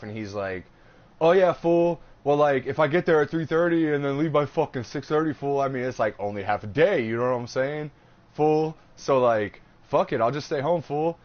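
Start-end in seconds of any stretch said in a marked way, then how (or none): 1.2-11.2 imitating a friend.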